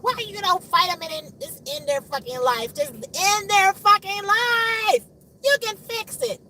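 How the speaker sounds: high-pitched, loud rant at God; furious pleading. Retold or imitated. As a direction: escalate into a drawn-out angry yell. Acted angry plea to God.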